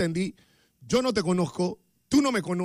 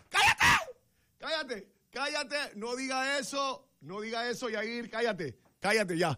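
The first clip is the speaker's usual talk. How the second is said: mock shout; 4 semitones higher, 5 dB quieter than usual. Imagined husband scene, telling off.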